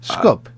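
Skup said short, SKOOP, one syllable; Albanian pronunciation. Retold or imitated. Recalling what Albanians on the bus called the city, Skup as SKOOP. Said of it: "they were saying Skup".

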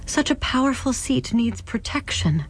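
exclaimed. Acted. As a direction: press the point firmly. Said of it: "Clara exclaimed".

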